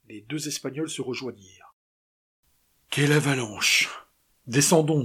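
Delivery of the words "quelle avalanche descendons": loud cry at the avalanche; loud exclamation. Acted. José reacting to the avalanche, loud exclamation. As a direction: call it out over the noise. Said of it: "dit le gabier".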